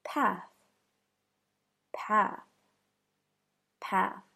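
"Path" ending in an airy unvoiced th; "Path" with the tongue tip out at the end; "Path" with a soft hiss at the end; unvoiced TH demo. Shown as a demonstration. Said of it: "Next example".

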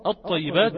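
"الطيبات" begun on a sounded hamza, straight into a doubled ط; initial hamza sounded. Shown as a demonstration. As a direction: start "الطيبات" with a glottal onset, lam silent. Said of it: "أو حتى قاطع عند البدء بها".

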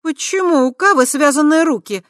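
high, loud astonished question. A narrator's reading. Tai shocked to see Kava's bound hands. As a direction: ask in shock. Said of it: "изумилась она".

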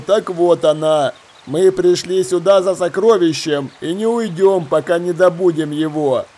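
lightly voiced ringleader, firm and deliberate; pirate leader. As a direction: lay down the truth with measured authority.

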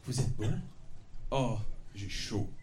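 hammed-up seduction, hushed; mock sultry. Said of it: "je vais vous jouer une scène". (murmure langoureux parodique)

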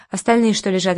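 ordinary delivery

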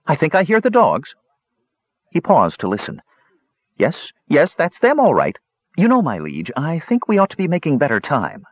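nervous little kender urging haste; worried Talaran. Acted. Talaran hears the dogs and urges his leader on, anxious.

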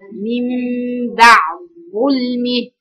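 slow "بعد ظلمه" with the د merged into the ظ; assimilated d. Shown as a demonstration. Teacher demonstrating the assimilation to her students, slow and careful. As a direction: stretch "بعد ظلمه", the د turned into a held ظ. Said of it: "مفيش دال".

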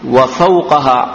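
وفوقها as wa-fawqaha; fatha on qaf. Shown as a demonstration. Teacher reads the adverb form in context, fatha on qaf. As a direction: put an a after the qaf in وفوقها. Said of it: "وإذا فتحنا".

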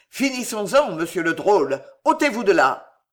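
bursting out. Acted. The duke d'Anjou ordering the rogue aside, angry. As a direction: snap the order in a burst of anger. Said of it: "éclata le duc d'Anjou".

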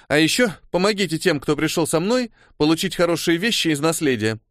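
high, firm demanding tone. Acted. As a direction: insist on it like an order. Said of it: "потребовала она". (требовательно)

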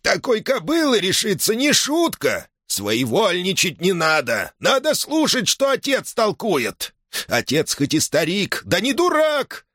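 put-on high, indignant old man's shout; scandalized that his son talks back; furious father shouting at his son; outraged old man. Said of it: "закипятился пуще прежнего".

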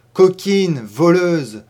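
loud shouted insults; furious shout. Acted. Old mistress screaming at her pregnant maid. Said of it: "criait-elle".

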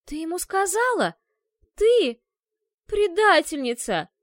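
высоко и громко, медленно на последнем слове; кричи в бешенстве на предательницу; яростный крик. Acted. Ашка швыряет сапог в кошку. (яростный крик на кошку)

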